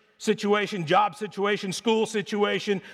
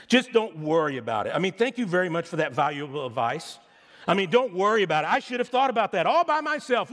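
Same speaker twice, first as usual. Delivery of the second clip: sarcastic. Retold or imitated. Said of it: "and this is very sarcastic".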